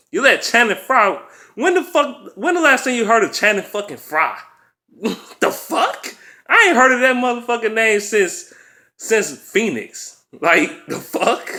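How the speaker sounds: high incredulous cry through laughter; can't believe it, voice cracking high; laughing disbelief. Real, not acted. Incredulous fan laughing at Frye.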